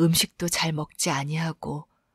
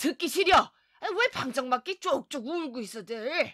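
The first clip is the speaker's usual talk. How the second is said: sudden, all-at-once loud, high yelling shout; 9 semitones higher, 3 dB quieter than usual. Reading a father's line as he snaps at his crying family: sudden loud shout. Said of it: "소리를 버럭 지르고".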